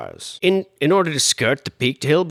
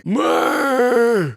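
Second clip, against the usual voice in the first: choking griffin; 9 semitones higher than usual. Pretend. Fireplace answers host in a high choked creature squawk. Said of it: "that guy sounded like a griffin who'd been choking on yarn balls".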